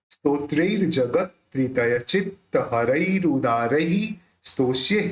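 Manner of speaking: clearly articulated verse recital; pronunciation model. Shown as a demonstration. Teacher modelling the verse for students, careful spoken recitation. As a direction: recite the shloka evenly, every ending sounded. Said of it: "ये इसका pronounce होगा".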